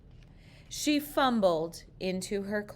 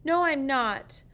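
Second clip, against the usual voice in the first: put-on higher, louder whining child; whiny protest; 8 semitones higher, 5 dB louder than usual. A narrator's reading. Sarah protesting to her father, whiny and loud. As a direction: complain like a kid who won't budge. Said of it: "Sarah said".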